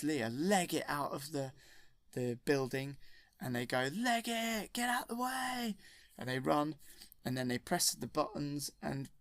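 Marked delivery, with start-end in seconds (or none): 3.9-5.8 high, hurried calls to run; urgent escape shout. Retold or imitated. Han and Leia fleeing before the blast, high and urgent. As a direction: yelp at everyone to clear off.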